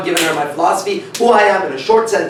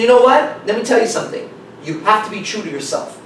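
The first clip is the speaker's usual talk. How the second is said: emphatic advice; 6 semitones higher than usual. Retold or imitated.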